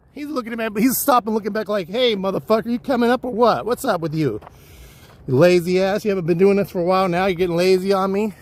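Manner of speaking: mock impatient buddy calling back, high; voicing his buddy. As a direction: tease him like a friend who won't wait. Friend voiced calling out on hike.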